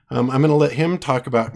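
losing his voice, a little hoarse. Real, not acted. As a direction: talk through a tired, hoarse throat. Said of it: "I hate losing my voice here".

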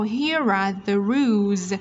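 slow, HERE ARE linked through the R. Shown as a demonstration. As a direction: run "Here are" together, final Z on "rules". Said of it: "phụ âm R với âm A".

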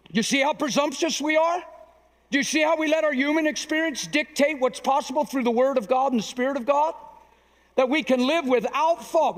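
high, driving scripture delivery; emphatic preaching. Real, not acted. Preacher quoting Philippians to his congregation, emphatic.

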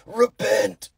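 high, strained outburst as if a vein is popping; hammed-up indignant scolding; mock angry zealot. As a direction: caricature an irate believer demanding repentance. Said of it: "got a vein, and they're just like".

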